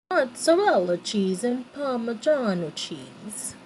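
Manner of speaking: a deliberately terrible mock Italian accent on the cheese names; bad Italian accent. Cooking for viewers, naming cheeses in a hammed-up Italian accent. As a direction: ham up the Italian accent badly, like a joke. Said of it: "that was the worst Italian accent".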